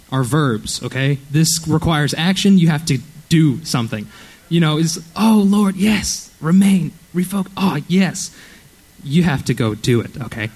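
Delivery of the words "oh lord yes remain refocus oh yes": mock fervent prayer. Mock prayer of lazy believer.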